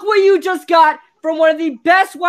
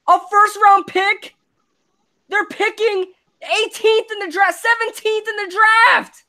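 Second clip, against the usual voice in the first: higher-pitched incredulous rant; real angry disbelief; exasperated rant; 4 semitones higher than usual. Real, not acted. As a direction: tear into the trade. Ranting over bad trade.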